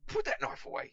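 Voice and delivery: high, loud alarmed cry; panicked shout. Acted. Pickle yells at Catweasel waving a knife, panicked high shout.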